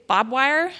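"bob wire" with the R and D dropped from barbed; "bob wire", plain BOB in place of barbed; Texan mispronunciation. Shown as a demonstration. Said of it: "really mispronounced vowels".

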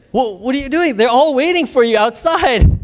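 acting out an alarmed, insistent prod; urgent. Translator runs in to fetch the preacher, urgent.

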